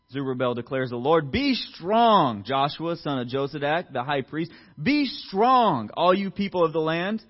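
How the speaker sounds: strong, ringing sermon read; preaching scripture. Acted. Preacher reading God's pep talk to the people, ringing. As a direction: proclaim God's promise with force.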